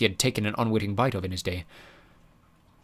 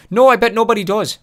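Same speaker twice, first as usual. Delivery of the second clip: sarcastic; 12 semitones higher, 9 dB louder than usual. Acted. Mulch dry reply.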